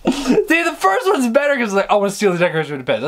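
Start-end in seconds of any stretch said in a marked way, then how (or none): 1.9-3.0 rushed quote. Retold or imitated. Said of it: "That's such a better line".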